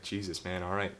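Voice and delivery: soft weary surrender; resigned sigh. Retold or imitated. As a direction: give up and walk away. Woman giving up, leaving.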